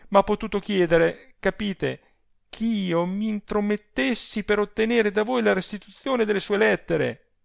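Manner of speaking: high, outraged telling; indignant. A narrator's reading. Adele reports the rival's request for letters, indignant.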